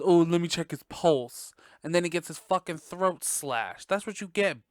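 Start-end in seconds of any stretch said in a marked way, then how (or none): 0.0-1.5 louder, dopey mock cop; mock the clueless cop. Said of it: "he goes".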